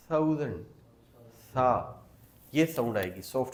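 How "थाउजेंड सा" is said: थाउजेंड with a soft "sa" th; soft th sound. Shown as a demonstration. Teacher modelling the soft th in थाउजेंड. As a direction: start थाउजेंड with a soft breathy th. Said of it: "थाउजेंड नहीं पढ़ना, बल्कि".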